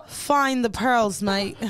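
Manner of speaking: put-on slow, drawn-out Australian accent; amused fake Australian; mock Australian accent. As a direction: put on a jokey Aussie accent. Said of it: "get me an Australian nigga and I'm gonna be like".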